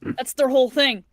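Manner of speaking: chewing while talking. Real, not acted. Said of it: "sorry if you guys can hear me eating".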